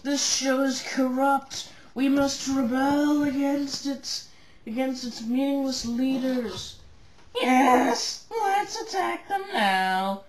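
loud, slow, high rebel speech; rallying cry. Acted. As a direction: rouse the crowd to revolt.

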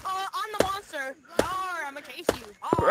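monster voice. Pretend. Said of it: "somebody doing a really good monster impression".

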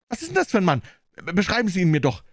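deutlich höhere Frauenstimme, gespannt fragend; Marjorie, neugierig. Acted. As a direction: als junge Frau drängend nachfragen. Marjorie voiced, higher. (Marjorie fragt Jeans gespannt nach dem Besitzer, mit hoher Stimme)

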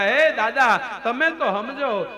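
tearful pleading. Acted. Draupadi begs Dhritarashtra to stop his son, pleading. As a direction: beg the elder, stretching the words. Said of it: "રડતા રડતા એમ કહેવાય, આજીજી કરે".

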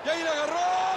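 breakneck goal commentary. Real, not acted. Gol, comentarista se exalta.

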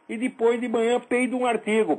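laughing. Real, not acted. Laughs at own joke.

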